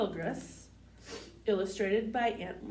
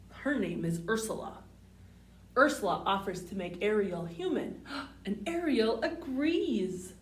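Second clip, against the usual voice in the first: clear, sing-song storybook read; picture-book read-aloud voice; reading to children. Acted.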